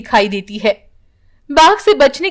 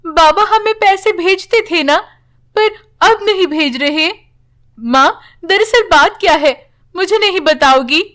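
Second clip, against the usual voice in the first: put-on higher, childlike worried voice; young daughter's voice; 6 semitones higher than usual. Daughter asks mother why she goes, childlike higher voice. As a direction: lightly play a little girl asking her mother.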